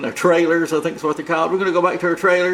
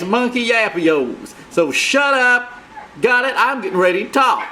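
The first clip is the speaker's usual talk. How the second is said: annoyed outburst; 4 semitones higher than usual. Acted. Second persona yells at the host.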